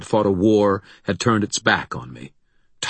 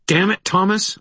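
much higher, angry outburst; spat out; 13 semitones higher, 4 dB louder than usual. A narrator's reading. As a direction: spit it out in exasperation. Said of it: "I spat".

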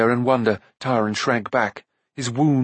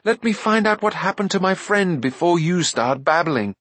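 cried out; 7 semitones higher than usual. A narrator's reading. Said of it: "Taran cried".

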